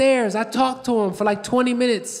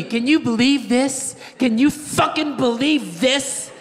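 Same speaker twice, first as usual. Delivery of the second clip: incredulous wife; 3 semitones higher than usual. Retold or imitated. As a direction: imitate a wife's indignant disbelief. Wife appalled at finding porno.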